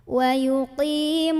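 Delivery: slow chanted "Wa yuqimunas" with a thick tongue-tip s; correct shad recitation. Shown as a demonstration. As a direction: intone "Wa yuqimunas", holding the heavy s. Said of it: "kalau ini dari ujung lidah".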